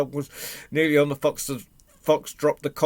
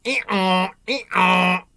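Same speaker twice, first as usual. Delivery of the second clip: loud, higher two-note hee-haw; imitation ee-ah, loud and raised; donkey braying; 6 semitones higher, 7 dB louder than usual. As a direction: bray like a donkey. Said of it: "the donkey started braying".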